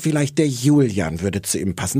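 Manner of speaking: a lightly put-on Austrian accent; Austrian accent attempt. Mocking the TV therapist, she tries an Austrian accent. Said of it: "mein Versuch, einen österreichischen Akzent zu machen".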